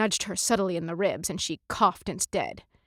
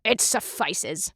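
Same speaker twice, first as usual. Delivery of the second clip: grunt; slower than usual. Acted. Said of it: "the captain grunted".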